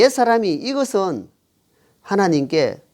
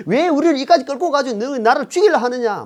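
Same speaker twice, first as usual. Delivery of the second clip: higher-pitched mock accusation; imitated resentful complaint; 6 semitones higher than usual. People confronting Moses in resentment, acted complaint. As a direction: act out a crowd turning on its leader. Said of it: "막 대적하고 원망 불평한다".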